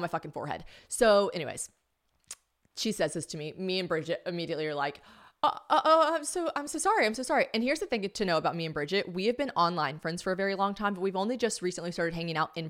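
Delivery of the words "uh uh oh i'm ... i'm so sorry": high-pitched, stammering mock apology; squeaky over-apologetic imitation; flustered apology. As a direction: trip over yourself apologizing. Retold immediate flustered apology.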